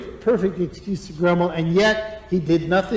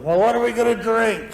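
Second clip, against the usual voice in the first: whiny complaint; 2 semitones higher than usual. Retold or imitated. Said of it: "they start grumbling".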